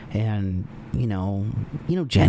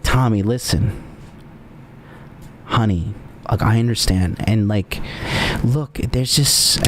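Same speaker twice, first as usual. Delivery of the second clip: soothing; 3 semitones lower than usual. Pretend. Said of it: "And then I'm like".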